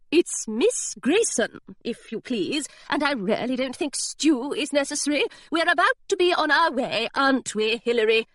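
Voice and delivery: high, frosty correction; stiff governess. Acted. Governess correcting the pirate's familiarity, high and frosty. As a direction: put him in his place, crisp and proper.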